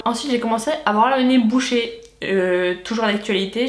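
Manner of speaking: talking through a blocked nose; stuffy, nasal from a cold. Real, not acted. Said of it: "je suis désolée si je parle du nez".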